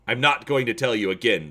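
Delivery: barking general. Acted. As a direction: bark it as a last threat. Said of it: "the general barks".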